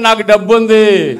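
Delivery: slow, stressed డబ్బు in నాకు డబ్బు ఉంది; confident declaration. Shown as a demonstration. Preacher modelling a confident confession for the crowd. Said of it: "ఇప్పుడు చెప్పండి".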